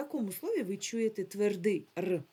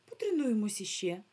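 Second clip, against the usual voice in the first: whisper; 2 semitones higher than usual. Real, not acted. Teacher starting drill.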